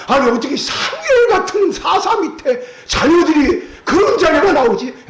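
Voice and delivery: slow, high, half-laughing disbelief; incredulous. Acted. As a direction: marvel aloud, slowly, with a laugh. Preacher marvels at Samuel's sons.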